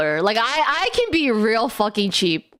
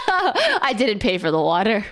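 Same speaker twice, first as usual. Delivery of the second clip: words broken up by laughter; laughing; 3 semitones lower than usual. Real, not acted. Vlogger to viewers, laughing through it.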